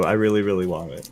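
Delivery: pleading. Pretend. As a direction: say it like you mean it. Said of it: "Well, I tell you".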